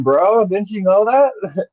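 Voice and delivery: high, teasing mock surprise; mock hype. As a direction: play up the hype with the voice way up. Mocking crypto promoters' hype pitch.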